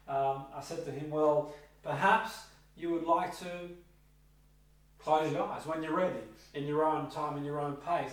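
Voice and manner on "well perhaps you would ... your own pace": reassuring suggestion. Retold or imitated. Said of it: "I said to the client".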